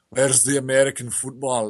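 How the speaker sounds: put-on a faintly Scottish accent slipping into Russian. Friend mocks a British pub crowd in a weak Scottish accent. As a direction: attempt a Scottish pub-goer, drifting Russian. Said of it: "I made my Scottish accent sound Russian there".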